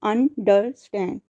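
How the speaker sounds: understand said very slowly, syllable by syllable; teacher spelling out understand; slow syllable demo. Shown as a demonstration. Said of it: "जैसे कि example है understand".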